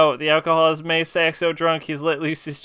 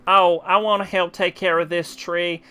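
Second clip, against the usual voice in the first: fake Southern accent. Reading game lines to the tree man in a mild fake Southern accent. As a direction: play it with a put-on Southern twang, only a hint. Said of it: "very fake Southern accent that I have decided to put on".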